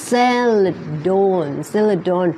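"salad on" said slowly as "salad don"; drawn-out teaching "salad don"; linked D. Shown as a demonstration. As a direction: link the D of "salad" onto "on". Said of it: "ลิงก์ดีกับ on นะ เป็น don".

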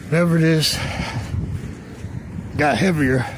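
strained, hauling something heavy; straining under the weight; carrying heavy load. Real, not acted. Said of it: "Yeah, this is heavy".

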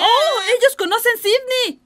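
excited. Acted. Delighted discovery.

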